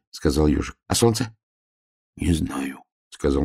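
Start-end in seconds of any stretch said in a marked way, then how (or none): 0.8-1.4 higher little hedgehog voice; lightly voiced, pitched-up hedgehog; puzzled hedgehog. A narrator's reading. Hedgehog questions bear in story. 1.8-2.8 soft, slow bear cub voice; slow, subdued little bear. A narrator's reading. Bear cub answers hedgehog.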